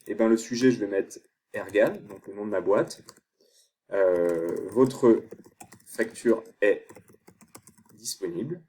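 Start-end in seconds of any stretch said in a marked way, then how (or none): 4.7-8.6 slow, word by word with long gaps; dictating while typing. Real, not acted. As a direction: say each word as you type it. Dictating email subject while typing.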